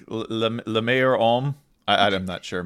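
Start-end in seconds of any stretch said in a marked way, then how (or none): 0.1-1.6 bad French. Shown as a demonstration. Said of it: "My French is absolutely terrible".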